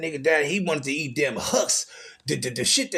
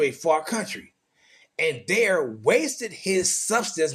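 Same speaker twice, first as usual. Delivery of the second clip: measured Bible reading; scripture reading. Acted. Preacher reading the prodigal son parable, measured scripture reading. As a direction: read the parable out in deliberate, separated phrases.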